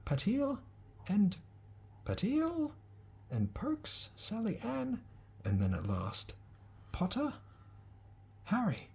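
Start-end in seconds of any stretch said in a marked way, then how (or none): 0.0-5.0 high, carrying teacher's roll call; a stern witch reading names aloud. Acted. Calling names for sorting. 6.9-8.9 high, carrying teacher's roll call; a stern witch reading names aloud. Acted. Calling names for sorting.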